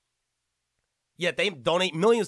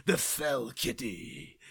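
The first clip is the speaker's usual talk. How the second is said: low, slow, deadpan reading of the name; mock straight face; 5 semitones lower, 4 dB quieter, much slower than usual. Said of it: "I gotta say that with a straight face".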